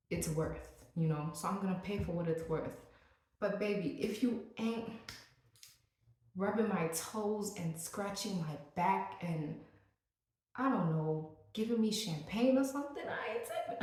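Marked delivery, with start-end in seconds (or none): 3.4-13.8 hammed-up sassy demand; sassy diva demand. Vlogger teasing service workers in sassy diva voice. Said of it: "I'm just kidding".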